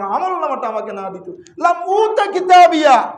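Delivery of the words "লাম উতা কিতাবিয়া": crying out. Acted. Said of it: "চিৎকার দিয়ে বলবে".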